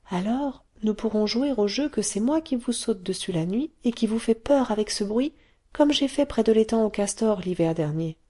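put-on a small girl explaining her secret; little girl Taffy. Taffy child voice.

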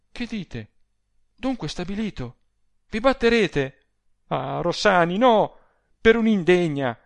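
dismay building into loud protest; alarmed. A narrator's reading. Adele learns Rossani will fight, alarmed.

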